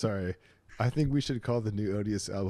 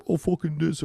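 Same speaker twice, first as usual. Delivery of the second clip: lightly mocked Texas accent, higher-pitched; 4 semitones higher, 3 dB louder than usual. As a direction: toss off a Texas impression. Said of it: "the Texas thing".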